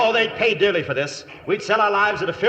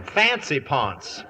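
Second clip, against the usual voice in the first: wry repeat; 2 semitones lower, much slower than usual. Acted. Humphrey repeats the insult slowly.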